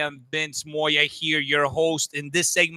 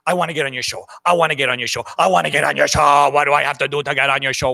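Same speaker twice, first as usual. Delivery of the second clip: pestering comic; 3 semitones lower, much faster than usual. Retold or imitated. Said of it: "she just keeps messaging us".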